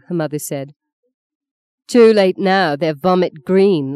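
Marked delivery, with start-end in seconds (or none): 1.9-3.9 laughing. A narrator's reading. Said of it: "laughed Justine".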